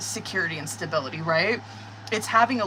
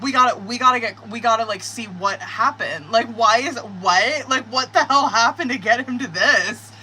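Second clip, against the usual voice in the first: baffled wondering; 2 semitones higher, 4 dB louder than usual. Retold or imitated. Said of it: "That's why I'm like".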